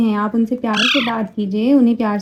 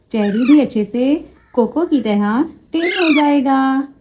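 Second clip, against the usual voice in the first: usual speaking voice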